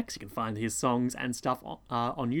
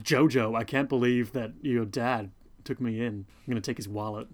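lightly voiced Simpsons crook; a hint of a sleazy street thug; Snake voice; 2 semitones lower than usual. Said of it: "That's my Snake impression. It's not good".

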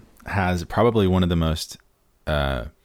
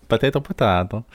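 "Potato, potato" in a light put-on Italian lilt; mock Italian; 3 semitones higher, faster than usual. Shown as a demonstration. Host slips into Italian while joking about pronunciation, a light Italian lilt. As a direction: roll "potato, potato" with a hint of an Italian accent. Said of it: "I don't know why I'm getting Italian".

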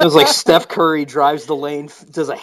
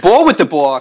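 imitating a catchphrase; 5 dB louder than usual. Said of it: "That's where that guy's from".

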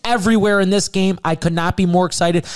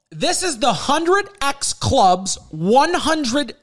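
announcer voice; 6 semitones higher, slower than usual. Acted. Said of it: "that felt like a load".

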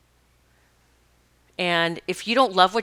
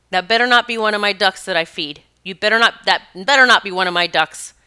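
raised-voice scolding warning; out-loud warning; 5 dB louder than usual. Retold or imitated. Woman to the eagle carrying a duck, warning out loud. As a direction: warn it off, good and loud. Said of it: "and I said out loud".

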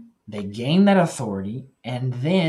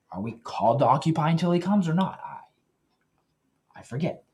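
sarcastic; 3 semitones higher than usual. Real, not acted. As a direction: feign forgetting with light sarcasm. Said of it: "I'm being sarcastic".

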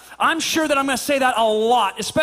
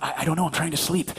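low, softer halting reply; imitated sleepy husband; 9 semitones lower, 5 dB quieter, faster than usual. Husband trying to sleep, low sleepy reply. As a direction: mumble it low, wanting sleep. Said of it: "I'm like".

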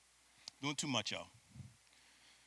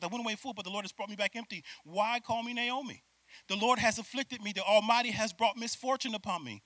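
deep scripture reading; 4 semitones higher, 3 dB louder than usual. Acted. Preacher reading Naomi's lament to the congregation, weighty. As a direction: let each line sink in. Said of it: "listen how deep she gets".

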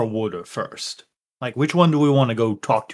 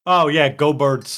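drawn-out Philly cheer; Philly accent. Acted. Player agrees to call them birds, Philly accent. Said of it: "might have gotten my accent back".

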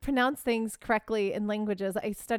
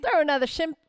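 higher-pitched, badly faked Australian; attempted Australian accent; 5 semitones higher, 3 dB louder, faster than usual. Host fumbles an Aussie catchphrase, attempted Australian accent. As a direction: try a jokey Australian accent, tripping up. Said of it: "I cannot do an Australian accent".

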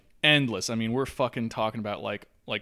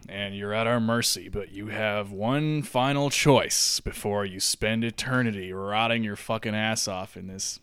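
demon voice; 3 semitones lower, 3 dB louder than usual. Acted. Demon addressing Jeff in hell.

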